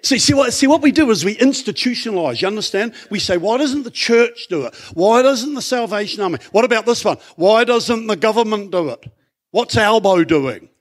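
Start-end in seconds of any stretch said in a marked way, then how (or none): 3.4-10.7 mock complaint. Mocking what people say.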